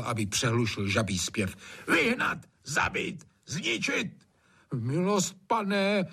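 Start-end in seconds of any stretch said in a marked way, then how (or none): 1.9-4.3 high barked commands; bellowing orders. A narrator's reading. Trautenberg bellowing at the frogs, enraged. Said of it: "hulákal". 4.7-6.0 high pleading voice; horrified plea. A narrator's reading. Gamekeeper horrified, pleading with his master. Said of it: "zhrozil se Hajný".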